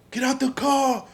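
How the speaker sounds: high, loud mock agent command; shouted police order. Agents jumping out at the driver, retold as a shouted order. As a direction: yell it as a raiding officer.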